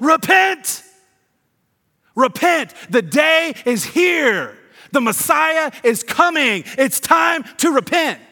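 mock very high, loud, drawn-out screaming. Retelling a crazy man popping out of the desert at the Jordan River; John the Baptist screaming. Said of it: "begins screaming at people".

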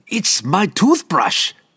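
delighted, gleeful, high-pitched. Narrator voicing a man who has just found his toothbrush, gleeful exclamation. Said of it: "he exclaimed gleefully".

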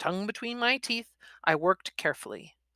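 ordinary delivery, nothing marked

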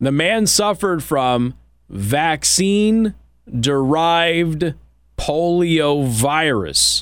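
very slow, deliberate, each word spaced out. Repeating a news line a second time for emphasis, very slow. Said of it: "I'm going to say this again really slow".

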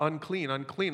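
ordinary talk, nothing marked

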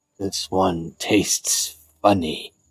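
dragon turtle creature voice. The game master voices a dragon turtle speaking in a player's head, in dragon turtle voice. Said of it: "a familiar dragon turtle voice".

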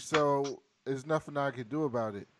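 usual speaking voice

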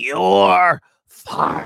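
loud, rough, rasping bark. Talking about wrestling villains, the speaker does a Vince McMahon 'You're fired' impression. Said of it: "that's my impersonation".

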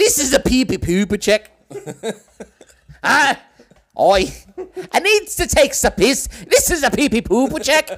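loud, high, drawn-out fake Irish brogue. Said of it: "I don't know how to say it in Irish".

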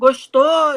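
high, loud shout. Retelling a friend shouting from the audience at a stand-up show: imitating a shout. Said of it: "uma menina amiga minha gritou assim".

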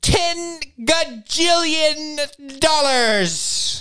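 very high, stately grand-lady voice, regal. Voicing a grandma character standing up during bidding: regal. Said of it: "she's, like, all regal".

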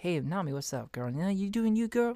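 soft, easygoing, laid-back casual voice. Contrasting with a radio-host voice, the speaker greets someone in a casual voice. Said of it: "that's more of my casual right. voice".

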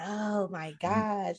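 real worried, anxious, alarmed outburst. Retelling a character's reaction after closing the door: imitating someone real worried. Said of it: "real worried at this point".

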